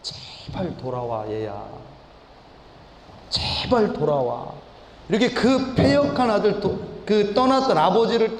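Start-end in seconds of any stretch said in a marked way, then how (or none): 0.0-4.5 put-on slow, soft, pleading plea to a lost child; pleading father. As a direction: beg him quietly to come home. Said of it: "뒷면으로는 뭐 하고 계시냐면". (느리고 조용하게 간절히 애원하는 아버지)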